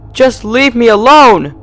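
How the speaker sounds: high, loud, slow sobbing cry; sobbing plea. Acted. Trapped Twilight sobbing at her captor. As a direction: wail it through tears. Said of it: "Twilight's sobs became louder".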